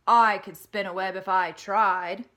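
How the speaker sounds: loud, bragging little pig; boasting. Acted. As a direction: show off proudly.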